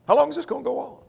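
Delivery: high, pleading lament; lamenting Wisdom. Acted. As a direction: ask it as a weary, ignored woman. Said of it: "So she laments their failure to listen".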